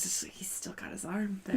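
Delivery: whispered aside. Real, not acted. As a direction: whisper it under breath.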